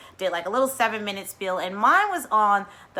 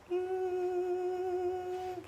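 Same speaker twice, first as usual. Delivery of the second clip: knowing hum; 11 semitones higher, 9 dB quieter than usual. Retold or imitated. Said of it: "I'm like".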